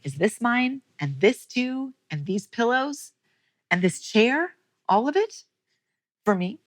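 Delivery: put-on like a child who can't believe the gifts are hers; amazed delight.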